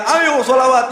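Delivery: high-pitched mock call to chant; imitated rallying shout. Habib urging the congregation to recite sholawat, imitated shouting. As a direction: call out as if rousing a silent congregation. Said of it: "Habib Syekhnya teriak-teriak".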